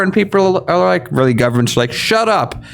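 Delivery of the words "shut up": high-pitched imitated brush-off; mock dismissal. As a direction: play someone waving off a warning, pitched up. Voices governments' dismissive reply.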